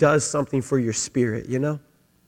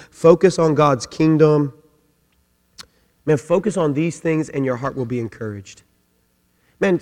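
ordinary delivery

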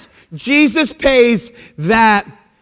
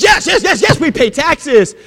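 acting out a flustered, too-quick answer; blurted eager yes; 3 semitones higher than usual. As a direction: hastily agree before thinking. Simon blurts answer to tax collectors.

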